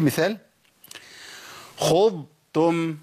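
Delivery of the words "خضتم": خضتم very slow, long ض, gap, then تم; separated Dad and Ta. Shown as a demonstration. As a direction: hold the ض of خضتم before a light ت. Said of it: "لازم أفصل بين المخرجين".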